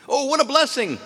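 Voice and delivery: high, loud exclamation of delight; excited gush. Acted. Neighbors marvel at his luck, high excited gush.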